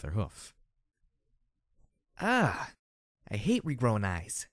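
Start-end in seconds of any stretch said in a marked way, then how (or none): 2.2-4.5 grumbling mutter. A narrator's reading. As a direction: grumble it half to yourself. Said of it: "she muttered".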